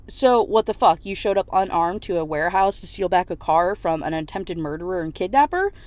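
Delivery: mildly acted indignant demand; retold heated grilling; angry questioning. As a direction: open hard, then lay out the accusation.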